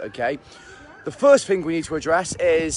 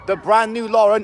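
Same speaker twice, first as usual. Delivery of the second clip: mock Scottish accent; 4 semitones higher, 5 dB louder than usual. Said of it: "I didn't enjoy the accent".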